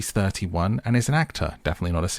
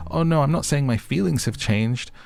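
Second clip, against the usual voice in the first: mock backtracking; 6 semitones higher than usual. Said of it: "He just absolutely backtracks here and says".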